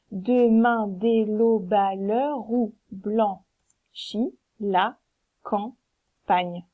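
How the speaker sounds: slow, "l'heure où" linked as "leu-rou"; linked reading, slowly; with liaison. Shown as a demonstration. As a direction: glide "l'heure" into "où" with no break. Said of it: "On fait la liaison entre l'heure et où".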